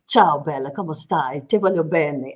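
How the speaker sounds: sweet-talking in Italian with a light Italian lilt; Italian phrases. Retold or imitated. Guest showing how Italians charm you, light Italian lilt. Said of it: "such a passionate accent".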